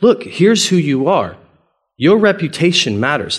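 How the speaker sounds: playfully reasoning with God; imitating a playful Moses; playful appeal. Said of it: "this playful thing where Moses is like".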